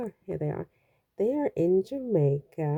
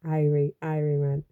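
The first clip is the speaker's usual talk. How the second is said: attempted Jamaican accent. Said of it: "I've lost my accent".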